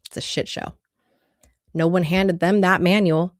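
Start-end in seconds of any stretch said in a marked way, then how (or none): 0.1-0.7 soft, under-the-breath repeat; quiet whispered aside. Real, not acted. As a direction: drop it in a whisper to yourself.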